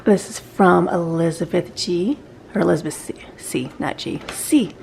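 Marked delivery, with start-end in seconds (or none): 2.5-4.8 whispered aside to herself; whispered correction. Real, not acted. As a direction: drop to a quick whisper to self-correct. Correcting herself under breath.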